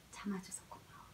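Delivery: whispered thanks, breath only; gentle whisper to baby. Shown as a demonstration. Mother whispering thanks to her baby for waiting, in a hushed whisper. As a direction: whisper it softly into the child's ear. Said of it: "아기한테 말하는 거죠".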